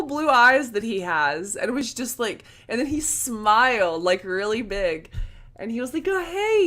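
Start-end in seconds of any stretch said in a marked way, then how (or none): 6.1-6.7 much higher mock-friendly hello; high-pitched retold hello; imitated friendly greeting. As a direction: lift it way up, imitating his greeting. Celebrity greets her, retold.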